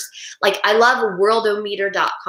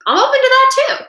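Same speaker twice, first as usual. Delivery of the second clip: sarcastic; 7 dB louder than usual. Real, not acted. Sarcastic challenge about chip.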